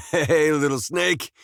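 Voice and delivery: high, slow greeting to a pet; cooing pet talk. Acted. Man greeting a little snake, high cooing. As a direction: coo at a little critter. Greeting a small animal fondly.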